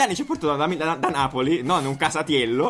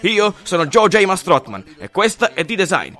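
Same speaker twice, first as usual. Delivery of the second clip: infomercial. Acted. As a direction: sell it like a late-night ad host. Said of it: "George Mastrotman dall'altra parte per lo spot".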